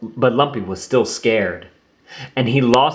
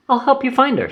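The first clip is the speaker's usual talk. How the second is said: Roo's voice; faster than usual. Acted. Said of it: "said Roo".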